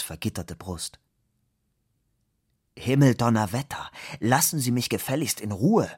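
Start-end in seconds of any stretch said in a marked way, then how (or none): 2.8-5.9 angry outburst. Acted. Fabian fends off the woman.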